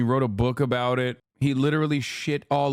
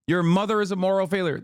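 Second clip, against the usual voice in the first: a hint of a scolding moralist, higher; mock stern conservative; 4 semitones higher than usual. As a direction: lecture like a judgmental uncle. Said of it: "Conservatives literally look at addiction and go".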